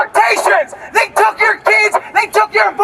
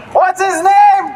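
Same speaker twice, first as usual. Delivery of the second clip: crowd call; slower than usual. Real, not acted. Calls out to the crowd.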